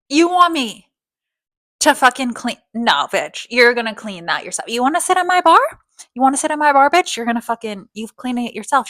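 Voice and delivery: loud mocking bartender dressing her down; sassy bartender telling her off. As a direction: tell her off like a rude bartender. Bartender snapping at the girl.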